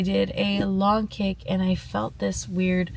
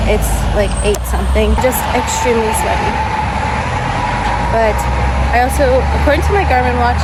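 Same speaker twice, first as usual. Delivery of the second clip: out of breath; 8 dB louder than usual. Real, not acted. Talking just after her run.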